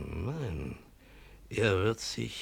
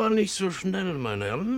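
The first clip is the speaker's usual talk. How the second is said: sudden high protest; 9 semitones higher, 5 dB louder, faster than usual. Acted. Officers pressing for the man.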